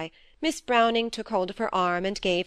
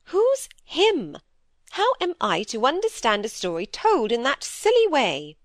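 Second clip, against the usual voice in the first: a lightly voiced stern older sister, a bit raised; stern elder sister; 5 semitones higher, 4 dB louder than usual. Dorothy lecturing Phoebe about her sighing, lightly voiced stern scolding. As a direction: scold your younger sister briskly, a touch louder. Miss Browning exasperated.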